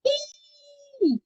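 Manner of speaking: very high squeaky ih; high thin ih for a child. Shown as a demonstration. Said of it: "Agora o som bem fino".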